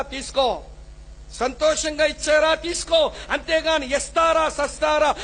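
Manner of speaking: stern sermon warning; fiery preaching rebuke. Acted. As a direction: warn the congregation with pulpit force. Preaching warning about dowry money.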